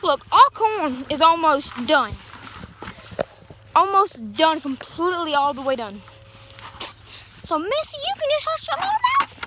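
hammed-up imagined sass; sassy comeback. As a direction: tell Grandma to hush, playfully. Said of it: "I thought".

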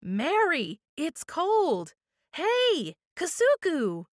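high, loud squawking bird voice; shrill parrot shout. A narrator's reading. Parrot shouting from under the sheet, shrill and loud. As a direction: screech it out like a parrot. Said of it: "a shrill voice shouted".

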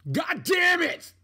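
a high, loud, slow curse of frustration; frustrated shout. Real, not acted. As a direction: yell it out in real exasperation. Frustrated outburst at second Switch.

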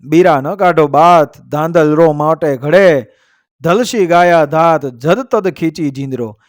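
measured, metrical couplet delivery; verse recitation. A narrator's reading. Storyteller reciting a couplet to listeners, verse recitation. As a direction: recite it as an old heroic verse.

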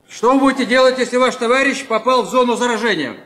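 ordinary delivery

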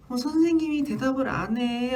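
put-on a small kid about to cry; whiny child. Child complaining the teacher won't answer, whiny. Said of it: "하면서 막 우-, 울고".

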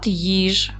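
each syllable said separately with pauses. Shown as a demonstration. Teacher dictating syllables to pupils, syllable by syllable. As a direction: break їжачок into slow, separate syllables. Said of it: "Склад".

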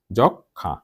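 যক খা with nasalised final vowel; two syllables, খা nasalised; nasal pronunciation demo. Shown as a demonstration. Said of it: "নাসিক্য উচ্চারণ হয়".

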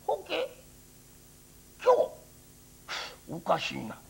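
lightly voiced old priest, searching; a kindly old monk calling gently. Priest voice in folk tale.

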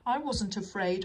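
huffy storybook character. A narrator's reading. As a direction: protest in wounded pride. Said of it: "huffed Gordon".

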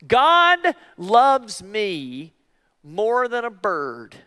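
very slow, drawn-out self-reminder; slow affirmation. Shown as a demonstration. Preacher showing the congregation how to remind themselves, slowly. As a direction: savor each word as a promise. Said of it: "sometimes I even have to do this".

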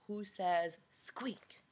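soft slow whisper like a tiny mouse; hushed mouse whisper. Acted. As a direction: whisper it slowly, mouse-quiet.

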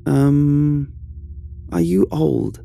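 put-on high, wondering kid voice asking questions; curious child. Young Noah questioning the knocking ghost, curious child. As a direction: ask the closet, half thrilled, half unsure.

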